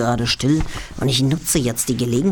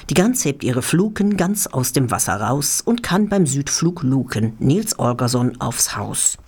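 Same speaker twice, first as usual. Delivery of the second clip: chant-like rhyming lines, pausing between couplets; rhythmic poem recital. Real, not acted. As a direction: read comic verse with a steady bouncing beat. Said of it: "in Form einer rhythmischen Zuckung".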